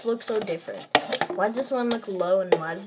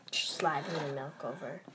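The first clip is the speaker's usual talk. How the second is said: whispering; 5 semitones lower, 9 dB quieter than usual. Real, not acted. Whispered aside.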